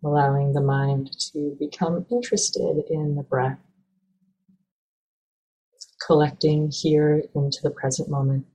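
calm, even meditation guidance with long pauses; measured, unhurried meditation teacher; guided meditation. Acted. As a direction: gently guide listeners into stillness, leaving space between phrases.

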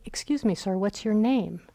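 politely kind, lifted at the start; mock kindly. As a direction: imitate a kindly, courteous inquiry. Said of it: "He didn't say it kindly, like".

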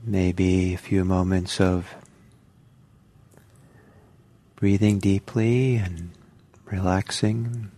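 unhurried meditation guidance with long pauses; calm guided-meditation delivery, phrase by phrase. Real, not acted. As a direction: gently guide them into settling, leaving space between phrases.

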